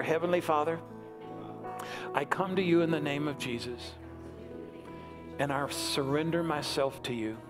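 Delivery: measured prayer in short phrases with long pauses; leading a prayer. Real, not acted. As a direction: lead them phrase by phrase, leaving room to repeat. Leads congregation in prayer.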